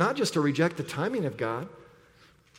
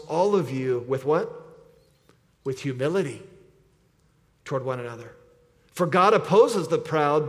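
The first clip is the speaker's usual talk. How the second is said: scripture reading. Acted. Reads Peter's letter aloud.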